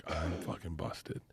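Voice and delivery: slow, soft, sinking mutter; a quiet, doomed aside to himself; muttered dread. Retold or imitated. Bert mutters to himself while waiting at the border, slow and soft.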